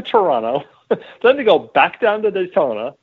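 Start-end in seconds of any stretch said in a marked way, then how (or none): 0.9-2.9 laughing. Real, not acted. Laughing while listing the schedule.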